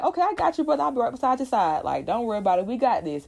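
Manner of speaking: high, breezy reassurance; Jeffrey reassuring. Retold or imitated. Jeffrey promising Will he will stand by him, high and breezy. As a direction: lift the pitch, easygoing promise. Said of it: "Jeffrey's like".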